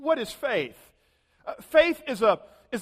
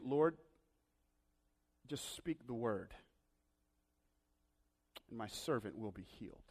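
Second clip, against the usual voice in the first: hushed prayer; 10 semitones lower, 15 dB quieter than usual. Acted. Preacher voices a prayer.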